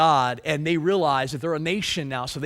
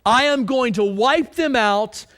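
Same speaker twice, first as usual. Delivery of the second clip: voice of God; 5 semitones higher, 5 dB louder than usual. Retold or imitated. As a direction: proclaim it as an angry God. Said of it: "So God responds and says".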